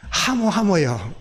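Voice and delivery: slow Gyeongsang dialect "하모, 하모요"; 경상도 사투리로 느리게. Shown as a demonstration. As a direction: say yes the Gyeongsang way, drawn out. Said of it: "우리 경상도 말로".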